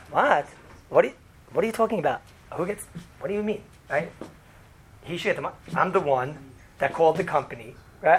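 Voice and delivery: fast, exasperated protest that he obviously deserves it; indignant quick retort. Shown as a demonstration. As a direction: rattle it off in disbelief. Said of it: "The other way I could do it is".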